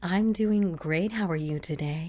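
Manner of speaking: reply like an eager interviewee; customer service voice. Retold or imitated. The speaker replying to the guide dog school, customer service voice. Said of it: "professional, like, interview, like, customer service voice".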